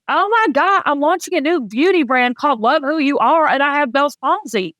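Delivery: retold dismay, pitched high; panicked thought. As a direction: replay the "oh no" moment in a high, incredulous rush of worry. Retelling her panicked thought before launch.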